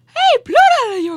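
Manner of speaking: very high, loud cartoon voice. Saying they can only do Mickey, the speaker does a Mickey Mouse voice. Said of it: "aber ich kann nur Mickey".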